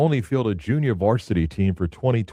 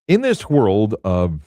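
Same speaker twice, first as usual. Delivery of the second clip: slow, louder dramatic trailer narrator; movie trailer voice; 5 dB louder, slower than usual. Pretend. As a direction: announce it like an epic film trailer. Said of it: "that sounded like a movie trailer".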